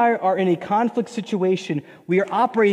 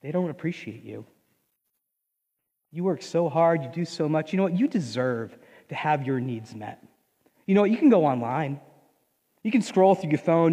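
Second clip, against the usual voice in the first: tempter whispering; 3 semitones lower, 3 dB quieter than usual. Acted. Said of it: "he whispers in your ear".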